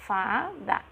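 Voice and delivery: "Fada" briefly split as FA, DA; syllable by syllable. Shown as a demonstration. Teacher checking children see it, "Fada" in two short pieces. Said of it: "São dois pedacinhos".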